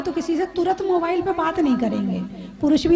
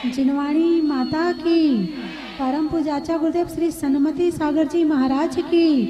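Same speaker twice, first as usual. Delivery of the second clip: devotional praise calls. Acted. Preacher calls out praise of the gurus to the congregation. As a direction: lead the crowd's cheer for the gurus.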